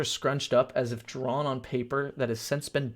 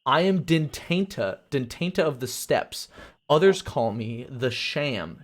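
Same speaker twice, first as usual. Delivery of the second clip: slow, grand introduction of herself; stately sorceress; 3 dB louder, slower than usual. Acted. Sorceress in purple robes to the traveller, slow and grand. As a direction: announce your name with dignity.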